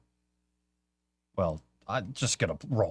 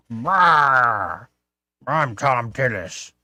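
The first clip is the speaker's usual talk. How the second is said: slow, growling frustrated senator impression; grumpy Thom Tillis; slower than usual. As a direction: grumble it like an angry old senator. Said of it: "Like, frustrated".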